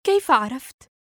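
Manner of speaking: a light, delighted wonder; gentle surprise. A narrator's reading. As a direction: let the surprise lift the question. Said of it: "قالت في دهشة رقيقة".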